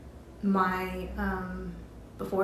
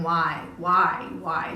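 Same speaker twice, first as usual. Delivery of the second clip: louder demanding why; retold screaming; 4 dB louder, much slower than usual. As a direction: shout the why at her, a bit hammed-up. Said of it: "she's just screaming".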